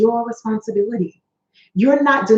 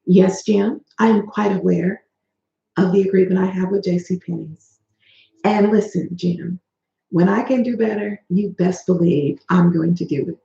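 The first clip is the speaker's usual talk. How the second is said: calm, even monotone, no rise; 3 semitones lower than usual. Shown as a demonstration. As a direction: keep it level and steady.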